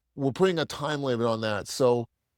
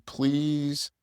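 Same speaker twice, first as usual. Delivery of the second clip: slow dictation; 3 semitones lower, slower than usual. Shown as a demonstration. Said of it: "we're gonna say".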